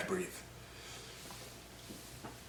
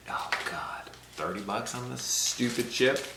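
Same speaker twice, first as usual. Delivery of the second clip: frustrated whisper; 7 dB quieter than usual. Real, not acted. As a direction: hiss it under breath. Nervous vlogger before spicy chip.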